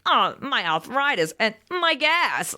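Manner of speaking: put-on high, slow complaining old lady; hammed-up old woman grumbling; mock old woman. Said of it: "her just being like".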